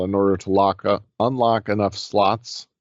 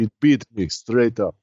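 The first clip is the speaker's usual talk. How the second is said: Russian accent impression; 2 semitones higher than usual. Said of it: "John Malkovich's accent in that movie".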